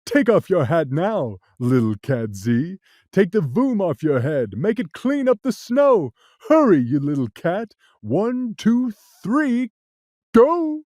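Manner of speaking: the cat yelling. Acted. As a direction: hurry the little cat along. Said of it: "Then he yelled".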